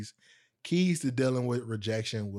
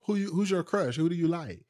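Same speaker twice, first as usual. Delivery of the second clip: higher-pitched, lightly voiced prying cousin; teasing nosy cousin; 6 semitones higher than usual. Cousin asking who his crush is, nosy. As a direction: quiz a friend eagerly about a secret crush.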